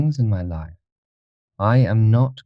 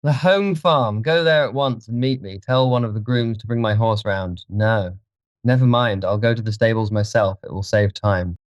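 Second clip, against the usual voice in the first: higher-pitched, insistent master; agitated orders; 4 semitones higher than usual. A narrator's reading. Dorian sends the keeper ahead, agitated. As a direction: give orders with urgent resolve.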